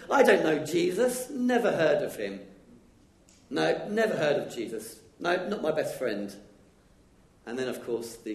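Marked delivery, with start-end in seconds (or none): 0.1-6.3 loud, high insistent denial; flatly disown your best friend; Peter's denial. Acted. Peter denying Jesus, loud and high insistence. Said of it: "He said".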